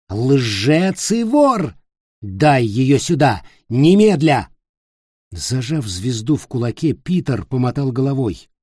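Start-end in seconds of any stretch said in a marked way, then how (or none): 0.1-4.5 slow, louder, biting commands; furious demand. Acted. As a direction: hammer each word of the order. Ulfger demanding the star.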